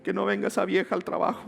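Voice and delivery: high, pinched mock begging; desperate whiny plea. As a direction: whimper it like a panicked prayer. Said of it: "tú estás en tu cabeza llorando".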